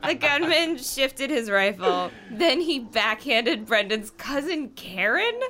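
laughing. Real, not acted. Reading through laughter.

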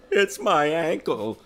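put-on high-pitched teen girl voice, loud. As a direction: play Lisa in a high girlish voice. Lisa voiced in read story.

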